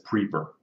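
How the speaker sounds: PREEPER said with EE in the first syllable; misspelling read literally. Shown as a demonstration. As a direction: point out the typo by saying PREEPER, PREE-per. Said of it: "Use spell check".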